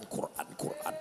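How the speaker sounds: "Quran, Quran" breathed in a whisper. Shown as a demonstration. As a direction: let "Quran" fade into a whisper. Repetition fading to whisper.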